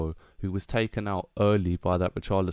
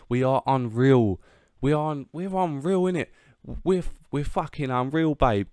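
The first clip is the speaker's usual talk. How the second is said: gleeful boast; 5 semitones higher, 4 dB louder than usual. Real, not acted. Fan gloating about his team.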